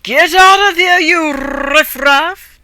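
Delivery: loud, high, slow drawn-out yell. Acted. Hero chases the cats and dogs out, yelling high and loud. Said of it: "and yelled".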